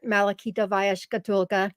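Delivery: Russian name said with a light Russian accent. Shown as a demonstration. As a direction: pronounce it like a Russian would, lightly. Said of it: "I sound very Russian".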